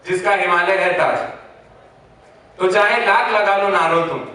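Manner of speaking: declaimed Hindi patriotic verse, full-voiced; poem recitation. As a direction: recite it line by line, pausing after each.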